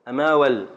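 "أماول" sounded as cut from the verse, stopping on the ل; scansion chunk. Shown as a demonstration. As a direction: halt "أماول" on its first lam. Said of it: "يبقى نقف على اللام الأولى".

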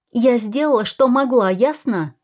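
Kara snaps at William to back off; snapping back. Acted. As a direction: bite back at him, fed up. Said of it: "рявкнула Кара".

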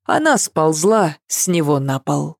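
plain reading voice

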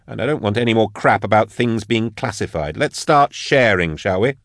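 insistent, needling the room to share; Magos Drusha. Acted. Drusha voiced, raised pitch.

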